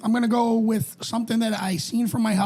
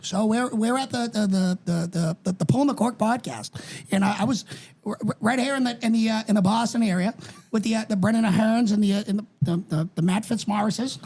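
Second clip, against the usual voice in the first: JFK impression. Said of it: "Have you heard my J F K?".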